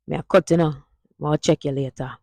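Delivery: Jamaican Patois sentence. Shown as a demonstration. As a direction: demo line in Jamaican Patois. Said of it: "Hear that?".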